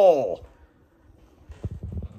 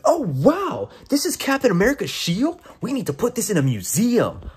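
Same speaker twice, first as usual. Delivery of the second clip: lightly mocked awestruck game heroine; a hint of a chirpy character, imitated; Kamala Khan; 5 semitones higher than usual. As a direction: pitch up at first, mock wide-eyed wonder. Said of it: "Kamala Khan talks out loud".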